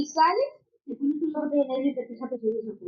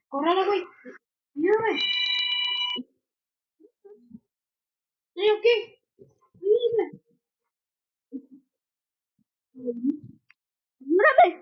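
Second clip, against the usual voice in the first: being chased; 5 semitones higher, much slower than usual. Real, not acted. Chased by a wolf in game.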